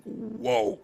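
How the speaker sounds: reacting to seeing everyone inside, awed; awed whoa. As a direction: gasp it out in awe. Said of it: "we were just like".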